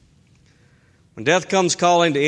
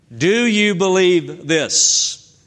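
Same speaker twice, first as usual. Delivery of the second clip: "Do you believe this?" slowed right down, louder, with DO stressed; slow pointed question; 3 semitones higher, 3 dB louder, much slower than usual. Shown as a demonstration. Preacher pressing the congregation with Jesus's question, slow and emphatic. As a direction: lean into each word of the challenge. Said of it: "notice that last question".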